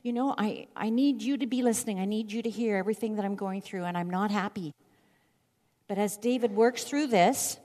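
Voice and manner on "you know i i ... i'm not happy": lightly voiced pleading to God; David's complaint. David pleading with God in the cave, mildly urgent. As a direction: urge it a bit, still struggling. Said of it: "it's more like".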